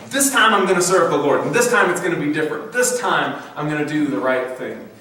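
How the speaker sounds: eager promise to serve the Lord; brazen confidence. Retold or imitated. Believers vowing to serve the Lord, confident and brazen. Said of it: "we feel strong and confident and brazen".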